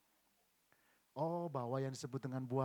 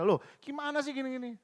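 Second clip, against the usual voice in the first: higher, louder mock scolding; retold grumbling; 9 semitones higher, 5 dB louder than usual. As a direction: grumble back indignantly, acting it out.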